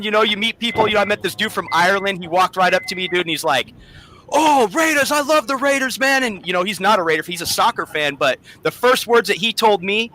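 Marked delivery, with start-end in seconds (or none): 4.3-6.2 put-on Irish accent. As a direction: hail him like an excited Irish fan. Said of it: "it was like a singer, you know, times two on the frickin' accent".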